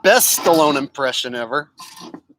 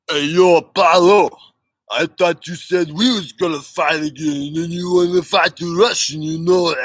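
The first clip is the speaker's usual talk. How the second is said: a lightly done Rocky voice, loud opener; Stallone impression; 3 dB louder than usual. Streamer doing Rocky for chat, light Stallone voice. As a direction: channel Rocky Balboa, mumbly. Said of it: "There's Sylvester".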